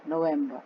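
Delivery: नवंबर as no-VEM-buh, pitched low; English pronunciation. Shown as a demonstration. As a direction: open the middle of नवंबर to VEM, drop the R. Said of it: "नवंबर नहीं".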